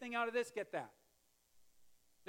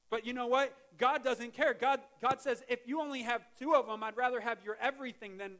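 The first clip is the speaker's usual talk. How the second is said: preaching loud; 4 semitones higher, 7 dB louder than usual. Real, not acted. Pastor to congregation, loud fervent preaching. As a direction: voice lifted high and loud for God's word. Preacher rising to full force.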